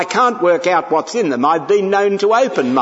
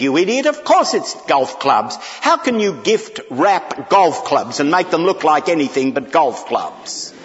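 exasperated brother; 3 semitones higher than usual. Retold or imitated. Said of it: "He said".

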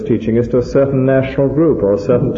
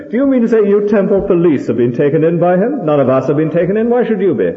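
higher-pitched, mildly acted outrage; indignant Pharisee; 6 semitones higher than usual. Pharisees challenge the temple police, in mild mock indignation. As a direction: demand answers as an affronted Pharisee, without shouting.

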